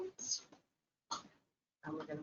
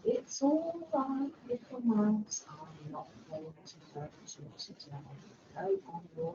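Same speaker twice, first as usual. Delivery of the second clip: gentle lion. Shown as a demonstration. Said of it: "says the lion".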